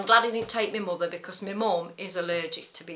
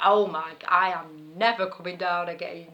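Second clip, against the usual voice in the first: disgusted; 4 dB louder than usual. Retold or imitated. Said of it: "she were disgusted".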